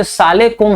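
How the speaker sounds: सालेकुम as one squashed word, "saa-le-kum"; swallowed greeting. Retold or imitated. Teacher mocking careless greeters, सालेकुम run together. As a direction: mimic a lazy contraction, सालेकुम. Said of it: "कहने लगे हैं".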